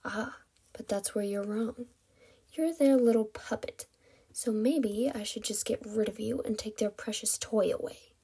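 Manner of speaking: soft, hushed menace; ghostly whisper. Acted. Kidnapper belittles captive as puppet, hushed menace. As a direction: muse threateningly under your breath. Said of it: "the ghostly whisper".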